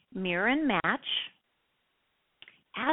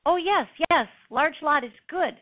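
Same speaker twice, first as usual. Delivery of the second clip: broken-English client; 7 semitones higher, 4 dB louder than usual. Retold or imitated. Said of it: "very broken English".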